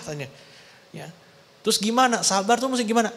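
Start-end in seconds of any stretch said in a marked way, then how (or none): 1.7-3.1 higher, puzzled asking voice; questioning listener. Acted. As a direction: ask like a confused church member. Congregation asks Paul. (bertanya seperti jemaat bingung, nada tinggi)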